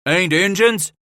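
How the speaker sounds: high, loud disbelieving yell; shouted question. Acted. Thief shouting from the wall.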